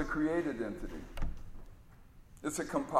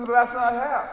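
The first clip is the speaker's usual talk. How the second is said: much higher and louder whine; a cheated kid's complaint; high whining protest; whiny sidekick; 8 semitones higher, 7 dB louder than usual. Retold or imitated. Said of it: "He says".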